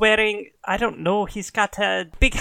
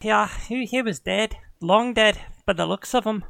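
Irish huntress; 3 semitones higher than usual. Acted. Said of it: "slipping into Irish now".

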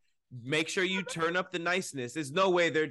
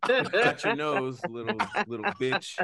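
pompous; 3 semitones lower than usual. Acted. Repeats pompous magician line.

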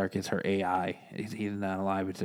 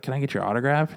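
fanboy excitement; 5 semitones higher, 5 dB louder, faster than usual. Retold or imitated. Fanboy Spider-Man asks.

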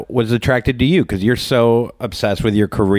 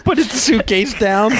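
weary traveler voice; 8 semitones higher than usual. Pretend. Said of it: "queef that's, like, had a long day".

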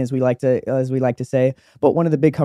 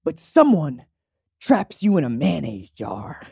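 higher, preachy talk-show host; Steve Harvey voice; 4 semitones higher than usual. Retold or imitated. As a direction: sell the flea parable like a preacher. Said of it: "he's speaking to the crowd and he's like".

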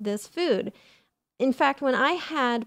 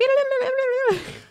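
babbling Animal Crossing speak; 14 semitones higher than usual. Pretend. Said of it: "I'm just going like".

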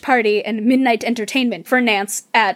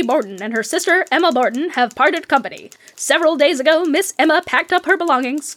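put-on brisk old newsreel announcer; old-timey newscaster. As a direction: read it like a 1900s radio newsman. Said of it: "my best old-timey newscaster voice".

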